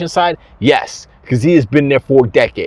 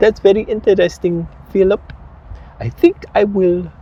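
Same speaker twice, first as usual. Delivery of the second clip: rough, bad Indian accent, pitched up; 7 semitones higher than usual. Retelling a discussion about shutting Xbox down, bad Indian accent as Satya. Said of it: "That's a bad Indian accent, by the way".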